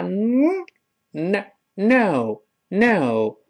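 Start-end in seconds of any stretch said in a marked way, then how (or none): 1.1-3.4 no with a lingering n sliding into "oh". Shown as a demonstration. Teacher modelling tongue movement, no with a drawn-out n. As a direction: glide the tongue back through the n of no. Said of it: "沿着牙根儿往后滑".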